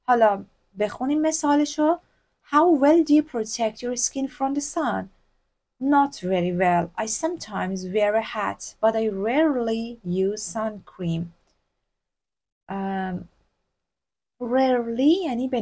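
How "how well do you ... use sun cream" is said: slow, careful English dialogue reading; slow textbook reading. Shown as a demonstration. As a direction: read the example aloud for learners. Reads example dialogue slowly.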